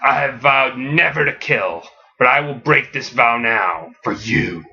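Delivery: low menacing Batman growl, lightly done; scary Batman. Acted. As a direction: threaten in a dark low voice. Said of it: "in the scariest voice he has ever talked in".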